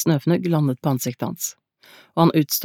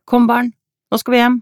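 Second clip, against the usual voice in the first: put-on high, raised voice calling children; 7 semitones higher, 5 dB louder than usual. A narrator's reading. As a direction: call the children in, loud and high. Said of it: "ropte Amalie". (roper høyt på barna)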